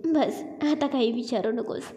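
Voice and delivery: laughing it off bashfully; shy little laugh. Acted. Woman teased about her boss, shy laughing deflection. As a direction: brush the question away through a giggle. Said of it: "लाजत पण हलकीशी हसते".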